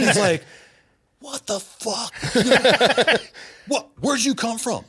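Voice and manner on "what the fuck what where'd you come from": higher, incredulous outburst; shocked disbelief. Retold or imitated. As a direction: blurt it out in total disbelief. Shocked friend sees surprise landing.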